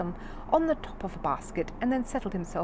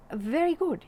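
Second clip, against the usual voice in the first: grudging; 10 semitones higher, 4 dB louder, slower than usual. A narrator's reading. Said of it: "he said grudgingly".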